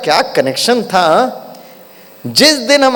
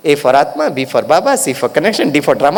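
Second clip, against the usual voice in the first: slow recital; 5 semitones lower, slower than usual. Shown as a demonstration. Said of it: "और हम बाबा के बच्चे".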